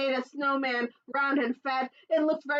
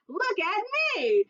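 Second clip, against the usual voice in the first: excited shout; 11 semitones higher than usual. Acted. Groundhog twirling in new slippers, gleeful shout. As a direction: show off with joy. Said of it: "twirled and shouted".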